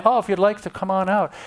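fast, casual "if you'd like to come on out"; hesitant casual request; timid polite ask. Shown as a demonstration. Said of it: "You notice to say".

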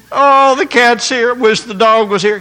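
hammed-up wishing out loud; mock lament. Man who went to feed the dog, mock lamenting.

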